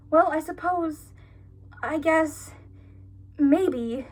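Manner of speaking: a hint of a wishy-washy, hesitant shrug; mock hesitant. Mocking Belle's half-hearted answer, lightly hesitant. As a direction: drag out the dithering, mocking it.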